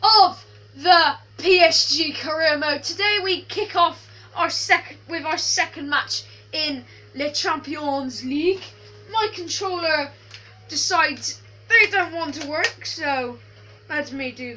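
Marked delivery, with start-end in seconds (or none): 0.0-8.6 mock French accent, hammed-up and stereotypical; an English person's cartoon French accent; jokey stereotypical French accent opening a career mode video. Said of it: "I'm talking in the French accent".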